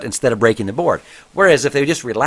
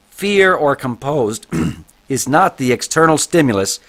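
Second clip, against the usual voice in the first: reading a book aloud. Acted. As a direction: read it out to the class like a text. Reads book passage aloud.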